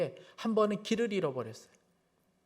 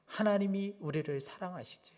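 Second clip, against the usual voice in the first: tender quote; 7 dB quieter than usual. Retold or imitated. Child's key words quoted tenderly again.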